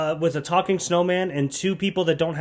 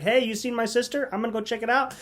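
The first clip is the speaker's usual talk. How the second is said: higher-pitched imitated young woman; mock heroine; 7 semitones higher than usual. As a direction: lightly voice her brushing off a suitor. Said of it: "And she's like".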